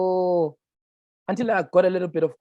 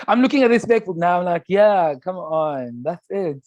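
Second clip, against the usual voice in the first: laughing; 2 semitones higher than usual. Real, not acted. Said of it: "I wanted to be serious".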